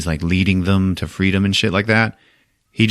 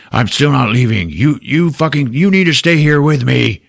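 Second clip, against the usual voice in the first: mock arguing; 5 semitones higher, 3 dB louder than usual. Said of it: "they start arguing".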